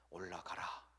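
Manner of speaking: low, solemn command; voice of God. Pretend. God answering David's prayer, low and solemn. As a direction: speak with calm authority.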